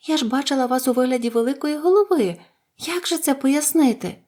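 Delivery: high-pitched, baffled questioning; amazed. A narrator's reading. Dorothy asking about the giant head, baffled. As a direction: question it in high, puzzled wonder. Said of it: "зачудовано сказала Дороті".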